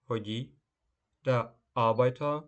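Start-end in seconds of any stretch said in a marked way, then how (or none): 1.2-2.4 der Arbeiter with the first A of Arbeiter stressed and louder; teacher stresses Arbeiter on the opening A for students. Shown as a demonstration. Teacher shows students the stress in Arbeiter, loud clear demo. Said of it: "наголос на «а»".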